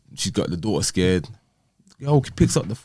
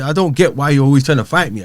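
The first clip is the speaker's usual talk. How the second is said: higher and louder, fed-up question; exasperated; 7 semitones higher, 8 dB louder than usual. Retold or imitated. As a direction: push back at her, raised and tense. Retold argument with ex.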